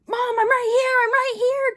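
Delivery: loud, very high-pitched shout; calling out. Retold or imitated. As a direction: call out urgently to mom, imitated. Retold calling out to mom.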